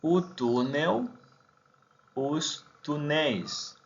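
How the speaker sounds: "os túneis" dicho "us túneis", lento; pronunciación portuguesa. Shown as a demonstration. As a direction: diptongo "eis" final bien marcado en "túneis". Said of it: "por el acento de la E más I S". (plural portugués despacio)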